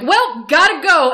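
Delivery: abrupt, bright "well, gotta go" retreat; hasty exit. Retold or imitated. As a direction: blurt it out and bolt. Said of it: "And he's like".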